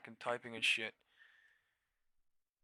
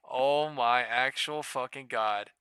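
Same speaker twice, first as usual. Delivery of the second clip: loud, slow, dragged-out disbelief; exasperated outburst; 2 semitones higher, 10 dB louder, slower than usual. Real, not acted. Trader raging at the market, loud and slow. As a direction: stretch every word out in fury.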